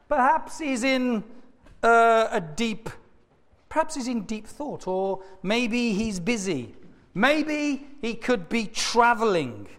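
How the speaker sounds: mock-pondering, stretched-out suggestions; taunting. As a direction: tease them with pretend speculation. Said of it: "Elijah began to taunt them".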